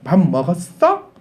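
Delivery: a slow, lightly put-on Seoul accent; a hint of Seoul accent saying 밥 먹었어; mock Seoul speech. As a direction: imitate a Jeolla native trying out Seoul speech, slowly. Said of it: "전라도 사람이 서울 가면 말 바뀌는데".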